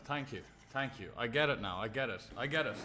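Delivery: barely audible, murmured devotion; softly pleading to unseen poker gods; hushed mock prayer. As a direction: mutter it like a half-joking confession to the gods.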